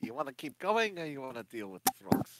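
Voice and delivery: soft, under-the-breath half-whisper. In a tabletop game, a player voices her character half-whispering to Oppenheimer: half-whispering. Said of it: "She'll kind of whisper to Oppenheimer".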